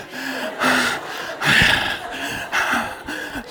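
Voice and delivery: long, heavy, audible breaths; winded panting. Real, not acted. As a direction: puff and catch your breath after preaching. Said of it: "I'm out of breath".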